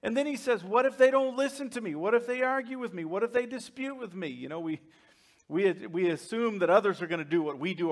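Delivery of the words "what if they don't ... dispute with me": quick imitated string of objections; Moses. Moses raises objections with God, quick mock arguing. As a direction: fire off each protest, mildly acted. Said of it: "he starts arguing with God".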